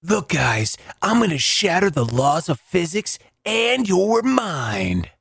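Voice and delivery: a hint of grand magician; lightly voiced showman magician. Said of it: "That's my magician voice".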